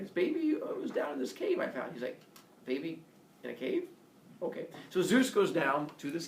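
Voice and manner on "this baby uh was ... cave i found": a high, innocent Hermes voice. Retold or imitated.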